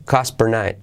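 "Cost per night" as "cas per night"; barely sounded T. Shown as a demonstration. Teacher showing learners "Cost per night" with T nearly dropped. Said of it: "casi no se dice".

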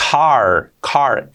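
car with explosive C, English R; strong C and R. Shown as a demonstration. Teacher drilling learners on car, strong C and R. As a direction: hit the C in car, hold the R. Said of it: "la C muy fuerte y la R".

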